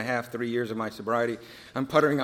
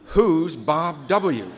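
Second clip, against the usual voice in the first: puzzled question; 3 semitones higher, 6 dB louder, much slower than usual. Retold or imitated. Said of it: "this counselor is saying".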